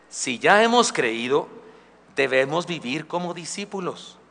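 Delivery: slow stress on hemos, rising then falling; slow, deliberate. Shown as a demonstration. Pastor stresses discipleship to youth, slow and deliberate. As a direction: lay out "Si ya hemos creído" slowly.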